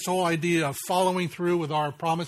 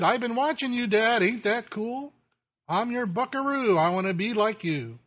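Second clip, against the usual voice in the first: put-on lightly raised, higher boyish voice; little boy's voice; 4 semitones higher than usual. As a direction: voice the proud little son looking up to dad. Father recites son's words in poem.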